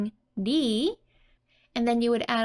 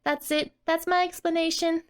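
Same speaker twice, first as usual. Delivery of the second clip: raised-pitch smug explaining, lightly voiced; a hint of a proud kid explaining herself; explanatory tone; 4 semitones higher than usual. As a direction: playfully justify smoking, half laughing. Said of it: "the explanatory tone saying".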